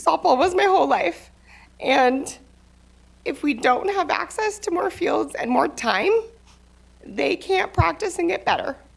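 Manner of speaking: overcome with emotion. Giving a timed public comment about fields for girls' softball, emotional. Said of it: "Sorry, I'm emotional".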